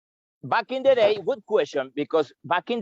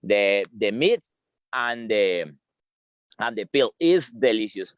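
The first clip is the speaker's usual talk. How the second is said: chewing while talking; mouth full; 5 semitones lower than usual. Real, not acted. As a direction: talk through a mouthful of berry. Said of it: "I still chewing the".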